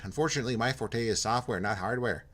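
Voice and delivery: put-on polite, lightly done Minnesota accent; hint of a chirpy Minnesota accent. Jim welcoming Porto in a light Minnesota accent. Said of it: "He's from Minnesota".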